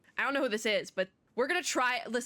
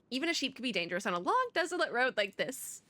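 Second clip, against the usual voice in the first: put-on Southern accent; 3 semitones higher than usual. Streamer rereading the sheep line in character, Southern accent. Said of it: "I guess I have to do the accent".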